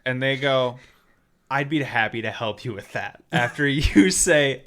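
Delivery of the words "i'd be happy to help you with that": low, mildly soothing bot reply; evenly recited support script; totally calm. Retold or imitated. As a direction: read it like unbothered customer service. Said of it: "totally calm".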